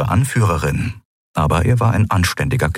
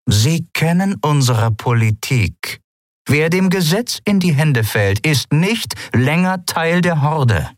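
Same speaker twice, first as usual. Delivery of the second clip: higher, slow stern captain voice; Zayla, stern captain; 9 semitones higher than usual. Acted. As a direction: lay down the law slowly. (Kapitänin weist ihn langsam und streng zurecht)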